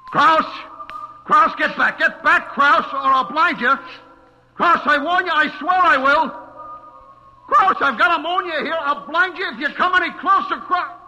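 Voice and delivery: high, loud, frantic threats; screaming warnings at the approaching butcher; desperate shout. Acted. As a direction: yell to hold him back, terrified. Threatening Kraus with ammonia.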